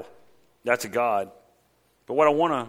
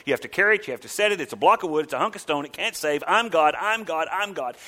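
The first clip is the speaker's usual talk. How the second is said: insistent God repeating himself; voicing God; 5 semitones higher than usual. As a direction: hammer each claim as God. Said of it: "How many times does he have to say it".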